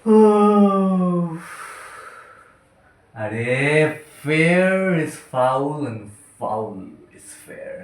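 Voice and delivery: halting, long-paused tipsy monologue; drunk playwright. Acted. Drunk playwright arguing with himself about war and kings, lightly slurred-drunk act. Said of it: "নাট্যকারের কথোপকথন মদ্যপ অবস্থায়".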